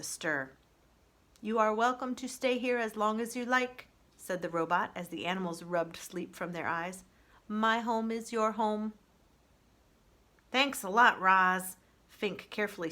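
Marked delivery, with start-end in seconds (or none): 1.4-3.9 even, measured robot, a touch higher; calm robot voice. Acted. Roz the robot proposing peace to the animals, even robot voice. 7.5-8.9 calm robot voice. Acted. Roz the robot proposing peace to the animals, even robot voice. 10.5-11.8 louder, friendly fox thanks; sly fox voice, cheerfully grateful. Acted. Fox Fink thanking Roz after a cold night, loud and cheerful.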